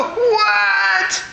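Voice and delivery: high, drawn-out mock shriek; imitating a frantic grandmother, hammed up; panicky. Anxious grandmother answering her grandson, mock panicky. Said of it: "she'd get more panicky".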